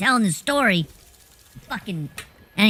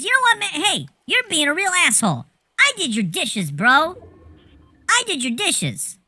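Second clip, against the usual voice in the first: mock indignant protest, pitched up; 6 semitones higher than usual. Joey protesting to Melvin that he did the dishes, mock indignant. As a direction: imitate an aggrieved guy arguing back, voice riding high.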